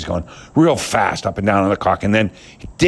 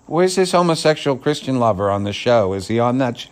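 jeering fan voice, pitched higher; mocking fans; 5 semitones higher than usual. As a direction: scoff like a fan on Twitter. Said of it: "And, uh, like".

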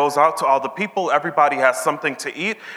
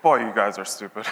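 joking rebuke; 7 semitones lower, 4 dB quieter than usual. Retold or imitated. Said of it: "this is the paraphrase version".

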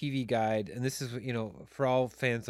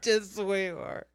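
higher, laughing through it; 8 semitones higher than usual. Retold or imitated. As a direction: laugh while quoting. Laughing Mister Rogers quote.

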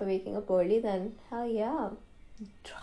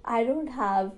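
laughing; 5 semitones higher, 5 dB louder than usual. Real, not acted. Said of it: "this is so funny to me".

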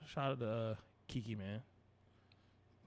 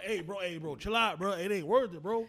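calm de-escalating; 6 semitones higher, 7 dB louder than usual. Retold or imitated. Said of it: "You gotta be like".

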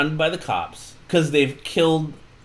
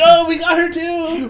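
high, louder imitated exclamation; mock excitement; 5 dB louder than usual. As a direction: pitch it way up, mimicking the gang. Imitates characters cheering over captive.

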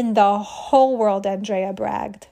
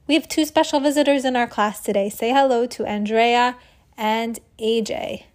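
kindergarten teacher voice. Acted. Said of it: "the kindergarten teacher, Miss Chan".

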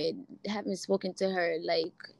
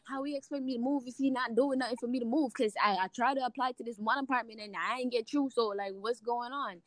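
a hint of Jamaican accent, quick and fired up; 4 semitones higher than usual. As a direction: let the Jamaican accent slip out while ranting. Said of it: "You hear the Jamaican accent coming out".

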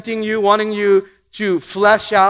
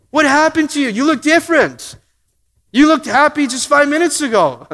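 puzzled church member; 5 semitones higher, 3 dB louder than usual. Retold or imitated.

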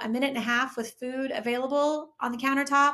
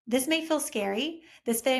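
usual speaking voice

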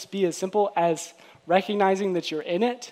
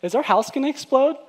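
higher-pitched alarmed question; mock panic; 6 semitones higher than usual. Preacher imagining the house exploding, mock panic. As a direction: play up a little alarm. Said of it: "that feeling of panic".

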